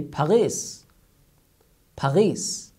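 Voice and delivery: "Paris" with a French gargled r, pah-REE. Retold or imitated. Teacher imitates how French people say Paris. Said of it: "how they pronounce it".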